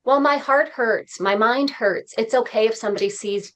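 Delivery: soothing inner voice; gentle self-reassurance. Retold or imitated. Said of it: "that's when I was like".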